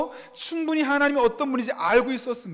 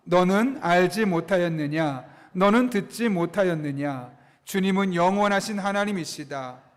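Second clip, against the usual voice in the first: slow, low, measured scripture reading; scripture read in unison; 3 semitones lower than usual. Real, not acted. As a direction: read it out evenly so a congregation can follow. Leads congregation reading scripture aloud.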